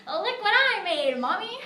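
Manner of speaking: put-on loud, high, proud child; excited little girl. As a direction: shout it like a thrilled kid. Proud child shows tampon cabin.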